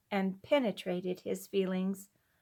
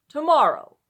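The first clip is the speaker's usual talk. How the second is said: firm answer; 5 semitones higher, 9 dB louder than usual. A narrator's reading. Husband's firm short answer.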